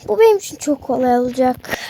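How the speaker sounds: a low, menacing villain catching his victim. Acted. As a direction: growl it like a gloating villain. Villain boasting.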